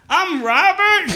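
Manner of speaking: high, slow disbelieving question; stunned question. Retold or imitated. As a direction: ask it as if your whole life just changed. Confused patient realizing his name.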